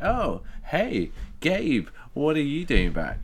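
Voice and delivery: high-pitched dude calling to a friend; surfer dude. Acted. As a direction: put on a high, dopey surfer voice. Voicing surfer dudes chatting from car.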